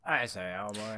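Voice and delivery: put-on light posh British "I say, oh boy"; a quick hint of a British officer; lightly imitating a British accent; mock British. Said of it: "bunch of British people".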